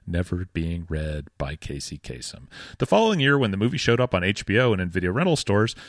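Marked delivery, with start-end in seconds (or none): 0.1-2.5 Casey Kasem voice. Pretend. Mock radio host voice, low and slow.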